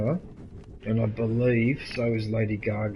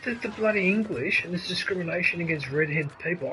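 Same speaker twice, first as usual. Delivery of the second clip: high, worked-up stammering protest; indignant; 6 semitones higher than usual. Real, not acted. Streamer objecting to discrimination against redhead people, indignant. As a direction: launch into an indignant rant, pitched up.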